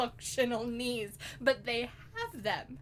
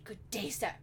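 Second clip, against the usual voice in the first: mock British accent. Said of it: "a British otter would sound like".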